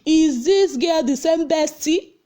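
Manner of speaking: a hint of the curious host asking; mock question. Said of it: "now asks".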